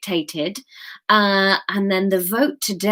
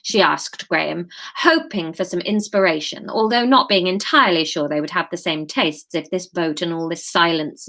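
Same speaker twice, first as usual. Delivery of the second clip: measured live chapter reading; story narration. A narrator's reading. Author reads her chapter to live listeners, story narration.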